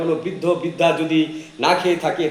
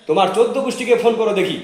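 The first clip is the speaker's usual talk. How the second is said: higher, louder and fast, screaming the challenge; shouted dare; 7 semitones higher, 4 dB louder, faster than usual. Acted. Slapped wife screaming at husband to call his whole family. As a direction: fling the dare at him at full voice.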